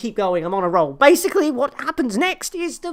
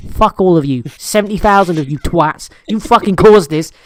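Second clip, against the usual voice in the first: mock rant at crowd; 5 semitones lower, 8 dB louder than usual. Real, not acted. Ranting at the crowd.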